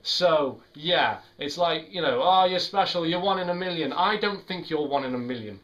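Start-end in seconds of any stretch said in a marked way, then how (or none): 2.2-3.9 higher, mildly hammed-up flattery; mock gushing. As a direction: imitate someone paying a gushy compliment. Mimics a gushing compliment.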